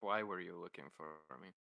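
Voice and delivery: flat, quiet monotone delivery. Acted. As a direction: say it with no inflection at all. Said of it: "that's a very monotone voice".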